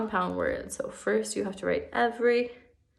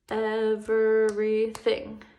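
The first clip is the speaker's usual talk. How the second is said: EVERYTHING very slow, in four even beats; syllable by syllable; 4 dB louder, much slower than usual. Shown as a demonstration. Teacher clapping out a word's syllables for pupils, syllable by syllable. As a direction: stretch EVERYTHING out as ev-er-y-thing. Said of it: "let's clap the syllables".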